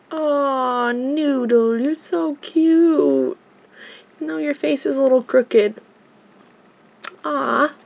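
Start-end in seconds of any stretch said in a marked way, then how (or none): 0.1-3.4 cooing. Real, not acted. Cooing to toy doll.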